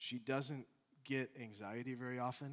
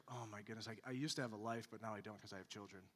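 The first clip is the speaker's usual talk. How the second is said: softer, fast self-pitying grumble; mock weary complaint; 5 dB quieter, faster than usual. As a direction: rattle it off like a tired parent. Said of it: "pervasive attitude of".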